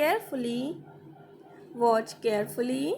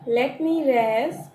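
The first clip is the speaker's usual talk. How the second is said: slow repeat; slower than usual. Shown as a demonstration. Teacher slowly repeating the line for students. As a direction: let me rest drawn out slowly.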